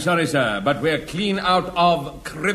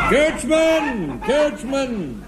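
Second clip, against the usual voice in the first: calling out; 6 semitones higher, much slower than usual. Acted. Calling out to coachman.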